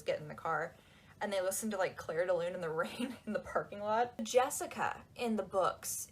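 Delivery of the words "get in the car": a lightly voiced menacing order; a hint of a threatening stranger; scary person. Edward ordering Bella into his car, lightly menacing. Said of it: "when someone scary says".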